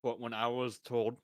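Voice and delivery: talking with a mouthful of salad; mouth full. Real, not acted. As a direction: mouth full of food, chewing. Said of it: "sorry, I have salad in my mouth right now".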